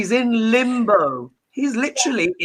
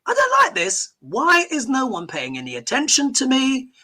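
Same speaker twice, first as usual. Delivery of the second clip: lightly voiced sulking king, pitched up; a hint of a neglected ghost king whining; Henry the Eighth ghost; 5 semitones higher than usual. Dead king complaining nobody notices him, lightly whiny. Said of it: "his old haunt just being like".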